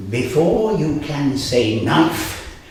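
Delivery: spell recitation. Acted. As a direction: chant a rhyming spell, rising to a bigger finish.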